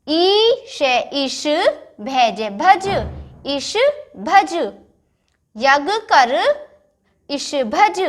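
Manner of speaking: गे जे then गज, each syllable drawn out slowly; slow syllable reading. Shown as a demonstration. Teacher reading गज तक चल syllable by syllable. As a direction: blend letters into words very slowly. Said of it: "अब उसके आगे का पढ़ते हैं".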